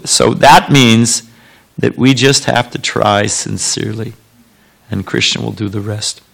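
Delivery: drowsy, drifting off; nodding off mid-sentence; half asleep. Real, not acted. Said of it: "Told you I was half asleep".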